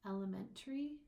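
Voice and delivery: "elementary" with the weight on MEN; stress shift demo. Shown as a demonstration. Teacher showing how stress changes pronunciation, weight on MEN. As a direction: land on the third syllable of "elementary". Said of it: "change the pronunciation of words".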